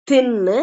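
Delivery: தின்னு with a firm, voiceless th; pressed TH. Shown as a demonstration. Teacher contrasting two th sounds for learners, pressed. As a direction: hit the th of தின்னு firmly. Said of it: "நல்லா அழுத்தி உச்சரிக்கிற".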